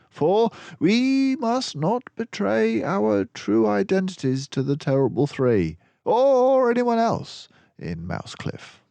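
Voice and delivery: high, loud, mannered detective voice; Basil's voice. Acted. Basil reassures gloomy Dawson on the train, high and hearty. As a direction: play the confident mouse detective.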